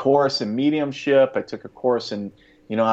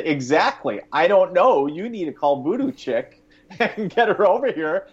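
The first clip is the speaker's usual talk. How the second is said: frantic; 7 semitones higher than usual. Retold or imitated. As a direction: blurt it out in a panic. Frantic reply to wife.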